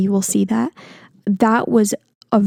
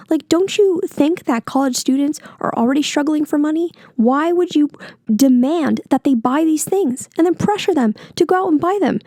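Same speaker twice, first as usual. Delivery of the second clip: higher-pitched indignant challenge; heated; 5 semitones higher than usual. Real, not acted. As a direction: argue it with real exasperation. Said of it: "I'm sorry I'm getting so heated".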